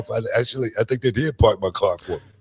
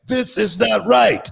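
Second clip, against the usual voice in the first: indignant protest; 9 semitones higher, slower than usual. Retold or imitated. Repeating his protest, louder.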